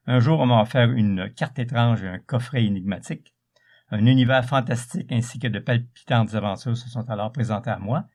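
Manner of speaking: back cover reading. Acted. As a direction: read it like a book trailer. Reads back cover dramatically.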